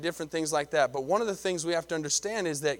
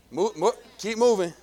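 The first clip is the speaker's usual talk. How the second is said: loud and pushed, pressing the crowd; urging shout; 4 semitones higher, 5 dB louder than usual. Acted. Preacher urging his church to keep going, loud shout. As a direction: shout it like a push forward.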